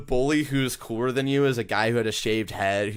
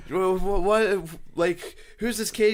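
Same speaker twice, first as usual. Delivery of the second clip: high, stammering disbelief; higher mock-bewildered voice; baffled character; 9 semitones higher, slower than usual. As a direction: stutter out a confused who's-this. Movie character quoted in retelling.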